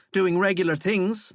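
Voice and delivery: lightly voiced scornful young woman. Valkyrie continues.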